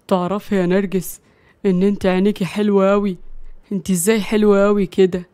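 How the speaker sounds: low, woozy sweet-talk; tipsy flirting husband. Acted. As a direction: murmur compliments to your wife.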